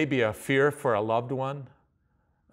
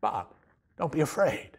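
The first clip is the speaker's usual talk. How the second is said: gentle angel voice. Pretend. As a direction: comfort them like an angel would. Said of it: "an angel that suddenly appeared and said".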